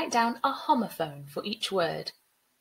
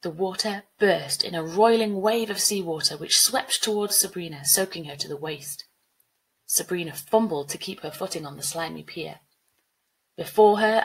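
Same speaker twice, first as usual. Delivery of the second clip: measured storybook reading; story narration; 3 semitones lower, 3 dB louder than usual. A narrator's reading. Teacher reading a flood story to pupils, measured narration. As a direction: narrate the flood scene evenly.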